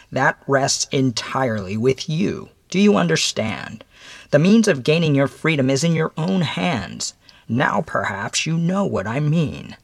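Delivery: measured visitor addressing a condemned man; stern mysterious visitor. Acted.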